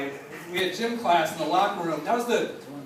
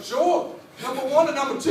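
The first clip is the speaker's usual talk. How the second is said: teacher; 6 semitones higher, 4 dB louder than usual. Retold or imitated. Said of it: "He'd be like".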